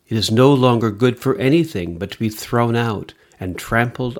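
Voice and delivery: measured liturgical reading voice; formal church reading; Gospel reading. Acted. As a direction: proclaim the Gospel steadily.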